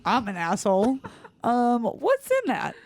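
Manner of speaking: laughing embarrassed. Retold or imitated. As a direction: laugh at your own mistake. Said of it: "I was like".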